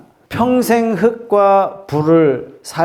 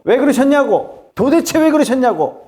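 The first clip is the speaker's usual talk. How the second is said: acted interrogation, pitched way up; accusatory demand; 9 semitones higher than usual. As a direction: demand answers like an indignant accuser. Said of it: "따지면서 묻습니다". (높은 목소리로 따져 묻는 흉내)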